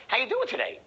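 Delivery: "How you doing today" high, loud and keen; really wanna know. Shown as a demonstration. Salesman greeting a prospect, curious lift on "doing".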